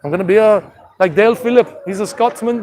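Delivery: lightly put-on Irish leprechaun accent; playful, rough Scottish-Irish brogue. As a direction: attempt a blend of Scottish and Irish. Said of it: "trying to do like a combination of Scottish and Irish".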